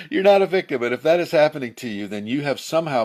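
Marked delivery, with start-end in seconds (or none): 0.1-0.8 firm, a bit less loud, still stressing "not"; firm repeat. Shown as a demonstration. Teacher repeating the point to viewers, firm. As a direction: repeat it steadily with weight on "not".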